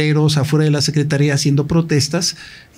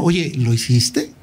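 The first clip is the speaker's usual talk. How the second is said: slow, drawn-out Oye, genuinely doubtful question; showing doubt; 4 semitones lower, slower than usual. Shown as a demonstration. Asking an accused man if he did it, slow and doubtful. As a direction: let the doubt sit in the question, slowly. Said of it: "mostrar esta duda".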